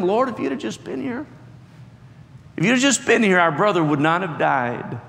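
Martha reproaching Jesus, lightly voiced; bitter Martha. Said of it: "a little bit of the bitterness in Martha's voice".

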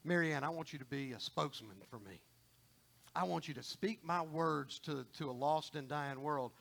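understated, low-voiced divine commission; the Lord speaking. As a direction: quietly give a personal calling as God. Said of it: "The Lord said".

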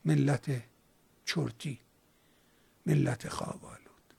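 soft, sleepy, fading to a whisper; drowsy murmur. Retold or imitated. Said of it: "چرتت پاره شده بود".

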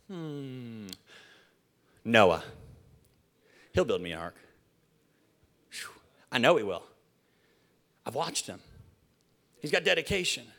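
low, soft, thinking aloud in pauses; hushed, confident pondering; God musing quietly. Acted. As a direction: muse quietly, as God choosing someone. Voices God musing over Noah.

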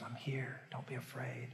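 God whispering to a doubter, soft and hushed. Retold or imitated. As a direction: breathe it gently like God close by. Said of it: "he whispers".

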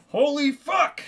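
high, loud burst of shock; storyteller's hammed-up horrified reaction; shocked exclamation. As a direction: blurt it out, appalled. Acted horrified reaction to cannibal news.

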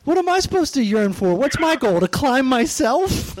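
put-on high, kvetching Yiddish accent, slowing. Voicing the mountain with Jewish jokes.

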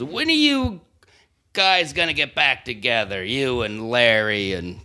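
slow, lightly voiced drunk heckler; drawn-out mock drunken heckle; imitated drunk heckler. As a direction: call out like a tipsy audience member. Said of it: "he was obviously just drunk".

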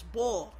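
"bull" said as "bawl", spelt B-O-L; Philly-accented "bull", rhyming with "ball"; Philly pronunciation. Shown as a demonstration. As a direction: say "bull" with an aw vowel. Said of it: "It's, it's, it's B O L".

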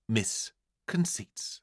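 slow hushed whisper. A narrator's reading. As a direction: breathe the name secretly. Voice that remained silent.

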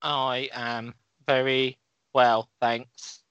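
slow flat monotone; every word level, no emphasis; no word stress. Shown as a demonstration. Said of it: "Oh, God, no, don't do this".

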